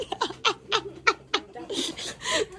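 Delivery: high laugh tipping into crying; tearful laugh. Real, not acted. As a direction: laugh helplessly on the edge of tears. Overcome by gift, asked about tears. (mataas na tawang naiiyak)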